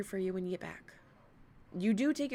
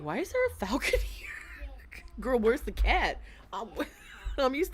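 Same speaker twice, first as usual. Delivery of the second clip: breathy puzzled whisper, higher, with a small laugh; confused whisper; 5 semitones higher than usual. Retold or imitated. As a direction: whisper it like a baffled thought. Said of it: "My brain was like".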